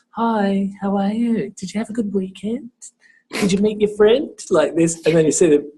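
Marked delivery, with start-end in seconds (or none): 0.1-4.3 talking to a female student. Shown as a demonstration. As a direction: greet her in a higher, friendly lilt. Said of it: "speak to a female student like".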